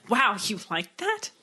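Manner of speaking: slow, drawn-out disbelief; incredulous friend. Retold or imitated. Friends hearing of an odd favorite movie, slowly incredulous. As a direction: question their taste, drawing the words out. Friends baffled at her taste.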